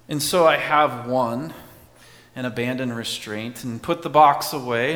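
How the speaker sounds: ordinary talk, nothing marked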